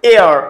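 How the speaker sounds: এয়ার begun on its vowel, without any "h"; silent H. Shown as a demonstration. Teacher confirms the silent H for students, এয়ার starting on the vowel. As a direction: say এয়ার firmly with the H left out. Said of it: "এইচ লেটারটার sound একদম totally silent".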